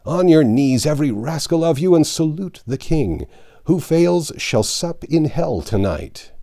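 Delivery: high, loud, grand command; commanding shout. Acted. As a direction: proclaim it like a knight's herald. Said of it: "and shouted".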